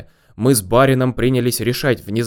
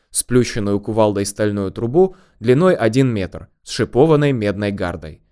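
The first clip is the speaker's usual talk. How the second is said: plain reading voice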